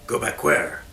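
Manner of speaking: hammy stage actor. Acted. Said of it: "he asked".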